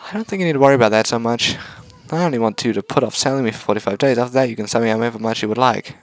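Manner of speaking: put-on high, bright girlish voice; cheerful robot girl voice. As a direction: chirp it like a cute robot. Robot speaks.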